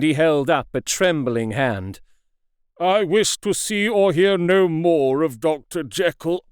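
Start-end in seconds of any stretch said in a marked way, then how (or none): 2.8-6.5 a touch louder, unsteady refusal. A narrator's reading. Lanyon refusing to hear of Jekyll, loud and unsteady. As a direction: push it out with a tremor. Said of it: "he said in a loud, unsteady voice".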